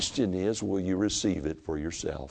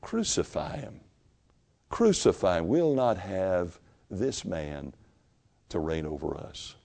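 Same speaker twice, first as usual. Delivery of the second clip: crowd's cry; 4 dB quieter than usual. Acted. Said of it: "It was".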